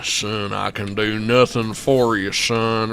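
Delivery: low, slow gruff lawman voice; Jeff Bridges impression. Streamer quoting a movie trailer to chat, deep gravelly impression. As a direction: growl it down low like a grizzled old lawman. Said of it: "Remember when Jeff Bridges said that".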